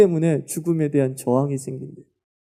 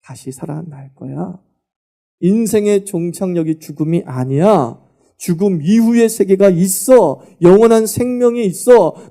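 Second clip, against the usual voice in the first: gentle to triumphant; 3 semitones higher, 6 dB louder than usual. Acted. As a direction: start tender and build to victory. Jesus voiced consoling, then triumphant.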